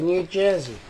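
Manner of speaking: half-hearted try at an American accent; badly faked American accent; attempted American accent. Shown as a demonstration. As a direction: have an unconvincing go at American. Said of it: "I can't do an American accent".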